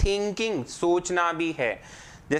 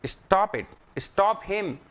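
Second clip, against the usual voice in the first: higher, firm command on stop; 5 semitones higher, much slower than usual. Shown as a demonstration. Teacher acting out a real stop command. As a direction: order them to stop. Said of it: "we use it".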